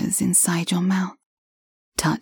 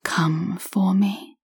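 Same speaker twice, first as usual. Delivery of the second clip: right in your ear; slower than usual. Acted. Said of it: "I whisper in your ear".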